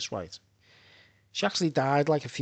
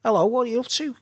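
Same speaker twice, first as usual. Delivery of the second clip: higher, louder phone greeting; imitating ex-girlfriend; 9 semitones higher, 6 dB louder, faster than usual. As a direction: put on her high, chirpy hello. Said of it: "And she goes".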